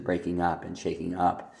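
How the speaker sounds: both phrases landing on up; stress on UP. Shown as a demonstration. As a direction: UP as the strong word in breaking up and shaking up. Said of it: "You hear how I'm putting a stress on the word up?".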